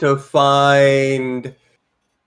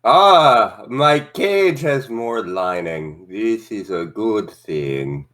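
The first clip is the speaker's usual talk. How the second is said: pompous creature voice; 6 semitones lower, slower than usual. Acted. Voicing Okasan in character.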